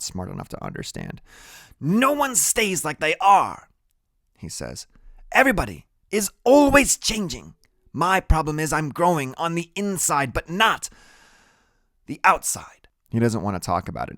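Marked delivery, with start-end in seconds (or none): 1.8-3.7 put-on high, slow kid voice; high-voiced brainy kid; Freak explaining. A narrator's reading. 5.3-12.9 put-on high-pitched kid voice; high-voiced brainy kid; earnest Freak. A narrator's reading.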